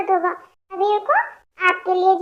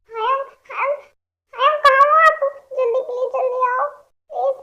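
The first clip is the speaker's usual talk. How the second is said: calling out; 4 semitones higher than usual. Acted. Calling for Hayam through house.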